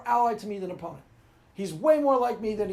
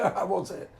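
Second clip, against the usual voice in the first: ordinary talk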